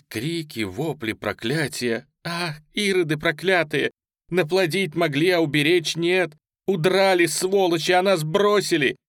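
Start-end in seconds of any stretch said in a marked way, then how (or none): 2.2-9.0 high, loud, desperate shriek; frantic scream. A narrator's reading. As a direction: scream at those who fled. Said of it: "кричала истошным голосом молодая казачка". (истошный крик)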